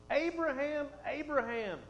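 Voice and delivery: angel calling from heaven, urgent; urgent double call. Acted. Angel calls Abraham from heaven, urgent emphatic call. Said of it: "Now that's for emphasis".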